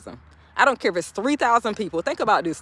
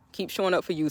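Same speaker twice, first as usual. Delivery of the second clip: soft repeat; 7 dB quieter, faster than usual. Shown as a demonstration.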